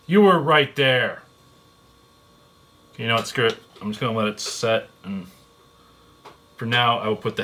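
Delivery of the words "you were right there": exasperated, louder and slow; louder frustrated groan. Real, not acted. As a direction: complain at the part, louder. Repeated louder, slower.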